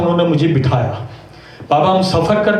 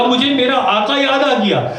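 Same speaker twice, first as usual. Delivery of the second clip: یاد stressed, pitched higher, falling; raised emphatic repeat; 7 semitones higher than usual. Shown as a demonstration. Preacher makes mourners notice the son's words, raised. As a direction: push یاد up high and let it fall. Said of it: "جملے دیکھیں عزیزانو".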